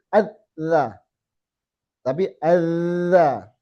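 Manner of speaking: adza with the final sound flowing on; drawn-out adza. Shown as a demonstration. Teacher demonstrating a flowing letter, drawn out. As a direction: let the zal in adza run on. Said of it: "itu namanya sifat rokhwah".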